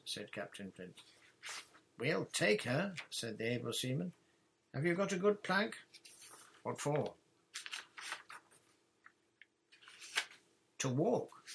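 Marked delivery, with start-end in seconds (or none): 2.0-11.4 lightly voiced small girl, higher and louder; gleeful mock pirate threat; eager able seaman. Titty threatens pirate plank game.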